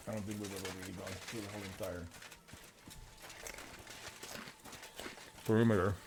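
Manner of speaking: talking with mouth full; words around a mouthful of food. Real, not acted. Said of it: "not talk with my mouth full".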